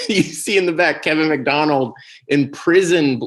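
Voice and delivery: normal talking voice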